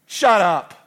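loud, high "Shut up." shouted with a falling snap; shouted rebuke. Acted. Pastor shouting down the complaining congregation. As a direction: bark it at them.

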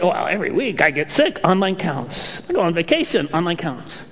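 mock excuses, rising toward a high sarcastic finish; lightly hammed-up excuse-maker. Excuse-making churchgoer listing reasons to skip, sarcastic mock tone. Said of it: "There was a little sarcasm in that".

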